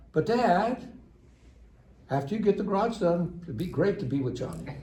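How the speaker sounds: lightly voiced kid angling to go play; kid wheedling. Son bargaining with his dad to see Johnny, wheedling.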